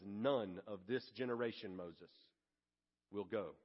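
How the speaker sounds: a hint of a low, soft divine pronouncement; quietly handing down God's sentence; solemn voice of God. God's verdict, quoted.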